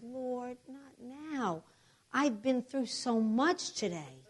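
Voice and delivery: soft, worn-out mock prayer; hushed complaint, slowing at the end; weary plea. Exhausted patient hiding from the Lord, soft pretend plea.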